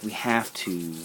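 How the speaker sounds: softly imitating a calm insistence; quiet, unbothered retold quote. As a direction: say it softly, with no urgency. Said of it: "he says it very calmly".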